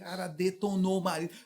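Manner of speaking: ordinary talk, nothing marked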